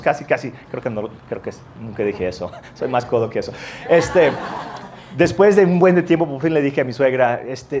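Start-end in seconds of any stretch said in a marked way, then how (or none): 3.9-6.3 laughing. Real, not acted. Laughing through the memory.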